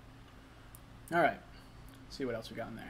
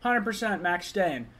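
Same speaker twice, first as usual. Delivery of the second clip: mocking quote; 5 semitones higher, 4 dB louder, slower than usual. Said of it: "He was like".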